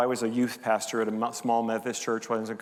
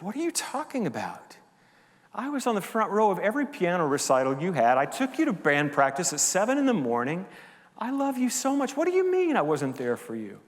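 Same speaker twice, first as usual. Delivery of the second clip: retold angry father; 5 semitones higher than usual. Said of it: "he got angry".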